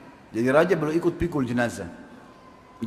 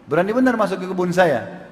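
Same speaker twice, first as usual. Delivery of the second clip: raised, indignant retold challenge; higher-pitched, affronted quote; angry challenge; 3 semitones higher than usual. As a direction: act out an owner angrily confronting a stranger. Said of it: "Lalu dia marah, dia mengatakan".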